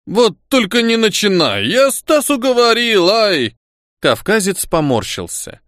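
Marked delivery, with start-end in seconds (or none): 0.1-3.5 put-on Caucasian accent, flustered. A narrator's reading. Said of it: "Когда Руслан волновался, его акцент усиливался".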